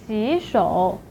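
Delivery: 洗 rising before a low 手 in 洗手; tone-change demo. Shown as a demonstration. Teacher introduces washing hands, second tone then third. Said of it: "So it should be pronounced as".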